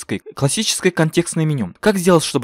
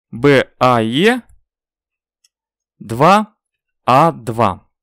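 dictating; slower than usual. Shown as a demonstration. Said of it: "Кавычки открываются".

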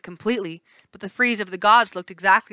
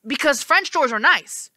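musing; 7 semitones higher, 4 dB louder than usual. Acted. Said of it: "the left face mused".

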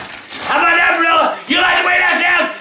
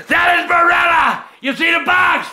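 angry shouting. Acted. Furious rant at pasta brand.

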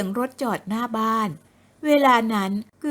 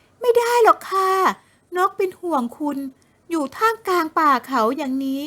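put-on fussing young woman; 5 semitones higher than usual.

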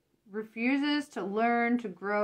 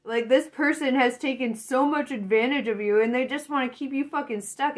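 louder building indignation; rising anger; 2 semitones higher, 4 dB louder than usual. Real, not acted. Reader channeling the querent's anger at a user. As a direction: let real anger climb line by line. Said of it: "I feel like I'm feeling your anger".

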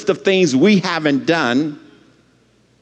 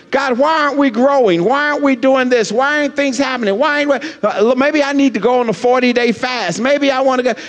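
higher-pitched, imploring questions; anxious wondering; 6 semitones higher, faster than usual. Retold or imitated. Pastor asking God why the church isn't growing, anxious wondering. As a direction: plead with God in worried questions. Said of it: "I'm wondering".

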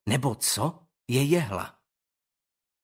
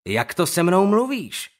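louder menacing challenge; threatening; 5 semitones higher, 6 dB louder than usual. Acted. Owen confronts Skandar, threatening. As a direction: square up to him.

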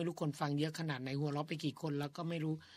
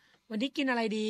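slow demo question; 6 semitones higher, 6 dB louder than usual. Shown as a demonstration. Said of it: "คนไทยไม่จะถามว่า".

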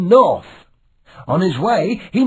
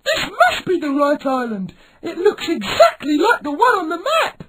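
put-on young pirate voice; 12 semitones higher than usual. A narrator's reading. Milo lands on island.

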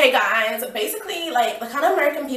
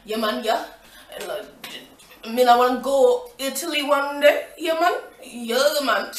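put-on Jamaican accent. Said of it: "in Jamaican accent".

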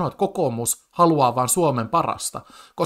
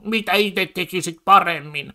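lightly voiced mocking politician, a bit higher; mocking quote of politicians; 5 semitones higher than usual. Streamer mocking right-wing debaters' catchphrase, lightly voiced. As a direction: sneer the question back like a smug debater. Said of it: "toi koko pointti tuolla on".

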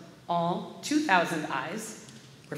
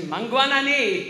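loud, higher-pitched chorused greeting; big ringing response; congregation's reply; 6 semitones higher, 7 dB louder than usual. Acted. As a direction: call it back like a whole congregation. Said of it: "I replied with the congregation".

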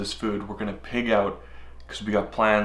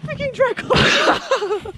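slowed playback; much slower than usual. Real, not acted. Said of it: "play that back one more time".

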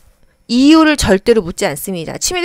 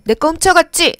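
suspicious accusation; 8 semitones higher than usual. Acted. Acting suspicious dementia patient.

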